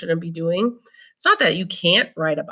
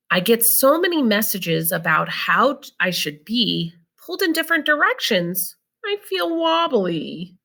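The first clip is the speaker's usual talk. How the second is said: put-on reading to children; 2 semitones higher than usual. Reading book aloud.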